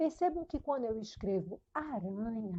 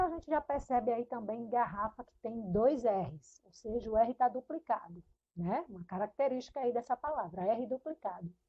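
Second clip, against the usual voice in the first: normal talking voice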